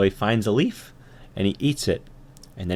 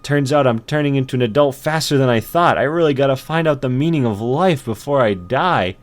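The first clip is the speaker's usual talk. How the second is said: tired ant; 4 semitones higher, 3 dB louder than usual. Acted. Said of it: "I'm getting real tired".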